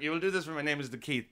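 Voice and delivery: a light mock-drunk proclamation of his own name; lightly boozy, as if he were God; drunk self-proclaiming. Comedian imagines himself drunk declaring his own name. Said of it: "when you're drunk".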